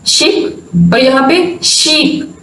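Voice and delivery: "शिप" short i, then "शीप" long ee, both slow; ship versus sheep. Shown as a demonstration. Teacher showing students how short and long vowels differ, slow. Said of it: "sound में difference है".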